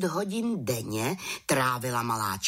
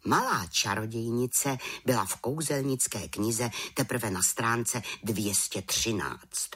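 usual speaking voice

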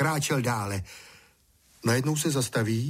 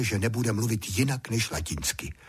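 ordinary delivery

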